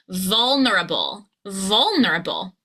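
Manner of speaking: "vulnerable" with a long VUL and the rest joined up; whole word, first syllable stressed. Shown as a demonstration. Coach leads learners together, stressing the first syllable. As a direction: glide through "vulnerable" from a held VUL. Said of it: "Now together".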